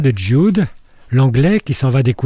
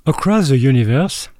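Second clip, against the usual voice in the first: English title said with a heavy French accent. Shown as a demonstration. Radio critic names the song in French-accented English. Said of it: "avec mon accent anglais".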